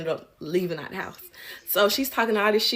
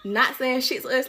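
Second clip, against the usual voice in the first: laughing; 5 semitones higher than usual. Real, not acted. Incredulous laughing rant.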